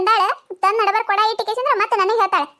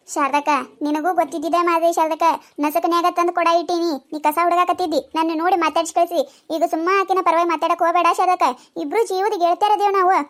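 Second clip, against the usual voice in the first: lower village woman; 4 semitones lower than usual. Acted. Woman argues her turn.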